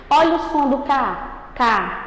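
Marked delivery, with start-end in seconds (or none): 1.5-2.0 "K" mais baixo no tom, som fechado; sílaba fraca. Shown as a demonstration. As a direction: diga "K" como sílaba átona, mais grave. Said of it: "ele é mais fraco, ele é mais fechado". ("K" fraco e fechado)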